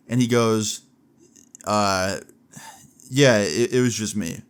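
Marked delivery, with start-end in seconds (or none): 1.6-4.4 halting mock confession with long pauses; hesitate, then own up without conviction; unconvincing, hesitant admission. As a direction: imitate someone admitting it unconvincingly. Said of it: "the way he said it was just so unconvincing".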